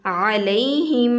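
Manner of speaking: علیہم with the final م held through the nose; nasal ghunna. Shown as a demonstration. Teacher shows the ghunna on علیہم slowly. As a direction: hum the م of علیہم. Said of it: "میم پر گنہ".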